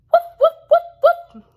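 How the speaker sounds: high, loud string of woofs; squeaky puppy barking in a row; excited puppy barks. Acted. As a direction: yap away like a puppy on the run. Puppy barks running with biscuits.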